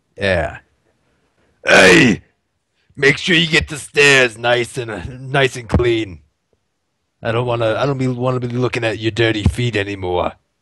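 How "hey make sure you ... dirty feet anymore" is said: put-on Bronx accent with a raspy, smoker's rasp. Voicing the priest of Pelor as a smoker from the Bronx. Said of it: "Was he the smoker from the Bronx?".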